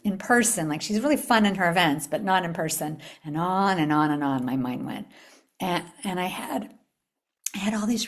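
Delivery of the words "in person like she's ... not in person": worried doubts. Retold or imitated. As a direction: fret over each what-if. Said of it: "questions came up in my mind".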